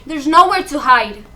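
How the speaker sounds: loud, panicked burst; sudden outcry. Acted. Trapped woman crying out in loud panic. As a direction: cry it out as if trapped.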